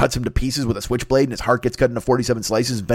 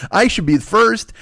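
higher, louder, slow insistence; indignant demand; 7 semitones higher, 4 dB louder, slower than usual. Retold or imitated. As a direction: plant your feet and demand credit. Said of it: "And Rick's like".

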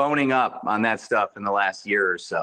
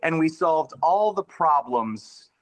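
mock triumph; 5 semitones higher than usual. Mock celebration of solving racism.

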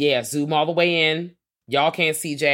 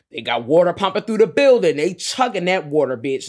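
mock faculty voice; 5 semitones higher, 7 dB louder than usual. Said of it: "the faculty are like".

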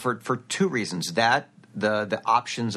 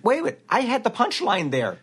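rising indignant outburst, getting louder; mock outrage, higher and louder; 11 semitones higher, 4 dB louder than usual. Indignant retold rant.

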